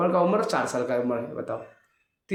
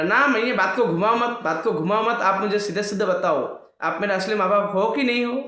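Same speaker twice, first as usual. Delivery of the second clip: raised, higher-pitched demand; insistent child Krishna; 5 semitones higher, 3 dB louder than usual. Acted. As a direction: press mother like an upset little boy. Child insists on straight answer. (ज़िद करते बालक का ऊँचा स्वर)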